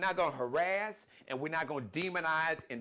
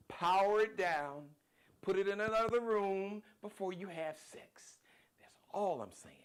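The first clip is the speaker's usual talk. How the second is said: whispered aside; 4 semitones higher than usual. Acted. Half-joking whispered advice.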